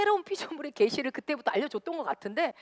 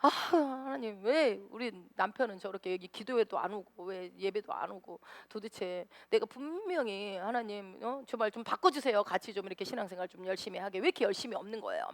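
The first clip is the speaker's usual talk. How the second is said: retold prayer; 6 dB quieter than usual. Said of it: "막 그랬는데".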